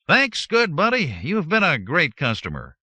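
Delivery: high, loud, oily salesman voice; oozing fake friendliness; smarmy. A narrator's reading. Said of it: "a smarmy voice said".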